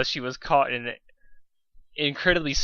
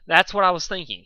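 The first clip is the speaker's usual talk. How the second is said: suspicious; 5 semitones higher, 6 dB louder than usual. A narrator's reading. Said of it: "he said suspiciously".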